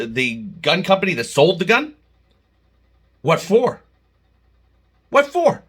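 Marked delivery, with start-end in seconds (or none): 3.2-3.8 raised, disbelieving what for; first incredulous ask; indignant question. Real, not acted. Indignant rant about lawsuit. 5.1-5.6 much higher and louder, stress on what; escalated second ask; incredulous outrage. Real, not acted. Repeats question, much higher.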